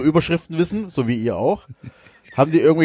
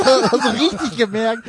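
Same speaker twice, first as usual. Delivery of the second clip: laughing; 9 semitones higher than usual. Real, not acted. Laughing at father's reaction.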